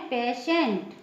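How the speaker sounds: "पेशेंट" with a sh in the middle; "पेशेंट" modelled for learners, sh replacing t. Shown as a demonstration. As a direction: say "पेशेंट" as pe-SHENT. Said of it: "इसका pronunciation है".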